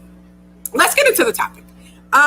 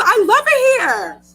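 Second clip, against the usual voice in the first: pitched up and breaking; tearful, higher "I love it here"; emotional, high; 9 semitones higher, 3 dB louder than usual. Real, not acted. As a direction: voice cracking with feeling. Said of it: "gonna cry on my last show".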